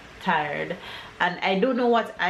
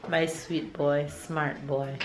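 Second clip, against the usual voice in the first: tender praise; 4 semitones lower, 5 dB quieter, slower than usual. Real, not acted. Mother praises son tenderly.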